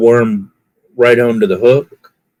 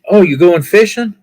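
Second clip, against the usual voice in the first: 1 cashier lady; 8 semitones higher, 3 dB louder than usual. Retold or imitated. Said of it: "She goes".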